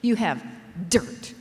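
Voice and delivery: "dirt" spat out with scorn; dismissive scorn on "dirt"; disdainful. Shown as a demonstration. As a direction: say "dirt" as if it disgusts you. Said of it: "you have to say it with just that kind of disdain".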